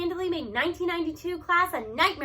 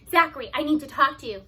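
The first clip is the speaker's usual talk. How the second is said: loud, urgent principal; urgent summons from the principal; urgent call; 8 dB louder than usual. A narrator's reading. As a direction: grab his attention, louder. Principal urgently grabs narrator.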